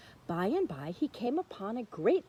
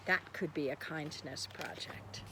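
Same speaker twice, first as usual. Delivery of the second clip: whisper; 6 semitones lower, 6 dB quieter than usual. Shown as a demonstration. Reader voices Minna's thought.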